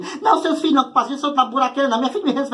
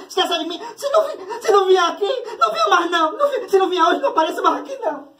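dramatic mom calling daughter; 3 semitones higher than usual. Retold or imitated. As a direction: play the guilt-tripping mother, lightly. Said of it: "já liga desse jeito".

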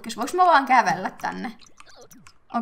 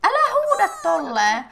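high, loud, drawn-out scolding; amused protest; 6 semitones higher, 5 dB louder than usual. Real, not acted. Player tells the character not to shout, amused protest. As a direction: object loudly with a laugh in it.

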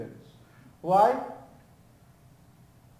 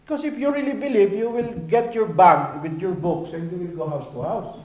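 rising preacher emphasis; 4 dB louder than usual. Acted.

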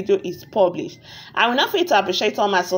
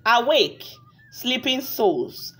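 story narration. A narrator's reading. Narrator tells viewers a tale of a wicked witch, measured storytelling. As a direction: narrate a village fairy tale, unhurried.

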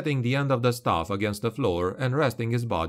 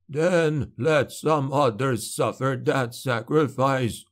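declaring; 3 semitones higher, slower than usual. Acted. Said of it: "Wilhelm declared".

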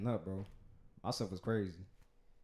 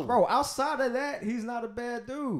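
laughing defense; 10 semitones higher, 5 dB louder, slower than usual. Real, not acted.

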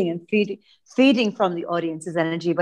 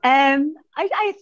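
echoey; 6 semitones higher than usual. Real, not acted. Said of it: "I'm sorry that I sound so echoey".

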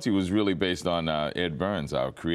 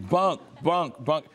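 imitated fan yell; 9 semitones higher, slower than usual. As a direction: call out the name like fans in the street. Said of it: "Do they yell Bunk all the time".

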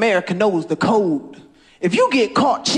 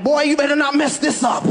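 dad voice; 5 semitones higher than usual. Acted. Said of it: "hear my dad up in heaven".

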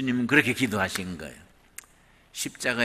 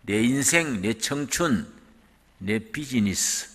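ordinary talk

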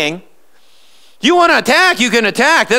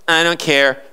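lower, shrugging indifferent mumble; Laodicean voice; 7 semitones lower than usual. Retold or imitated. Preacher mimicking an apathetic churchgoer, lower and indifferent. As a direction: toss it off like nothing matters. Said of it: "in that Laodicean".

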